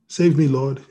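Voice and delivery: understated cry for help; mildly voiced plea; mild shout. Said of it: "he shouted".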